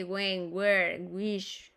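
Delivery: "when, where, wish" with the H left silent. Shown as a demonstration. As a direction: start "when, where, wish" on a plain w sound. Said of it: "Nunca se lee la H".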